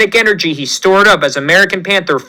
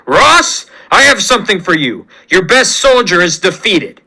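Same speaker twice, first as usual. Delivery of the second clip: calling out across the battlefield. Acted. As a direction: shout the name across the field. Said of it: "He screams".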